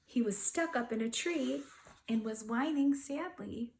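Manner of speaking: put-on gentle read-aloud to children; storybook narration voice; story narration. A narrator's reading. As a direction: tell it like a bedtime picture book. Reading a picture book aloud.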